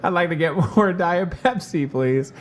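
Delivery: mom in fake disguise. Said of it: "put on a fake disguise".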